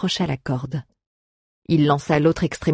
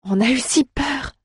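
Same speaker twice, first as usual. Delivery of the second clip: voix haute, sans plus de volume; voix de jeune fille émue; 9 semitones higher than usual. A narrator's reading. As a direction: confidence de jeune fille, haut perchée. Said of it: "chuchota la jeune fille". (jeune fille soulagée, voix aiguë)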